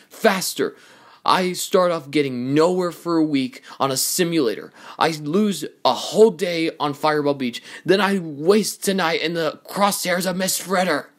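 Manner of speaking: high-pitched, exasperated venting; frustrated rant. Acted. Racer venting at trainer over lost training time, exasperated. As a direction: pour out the grievances in exasperation.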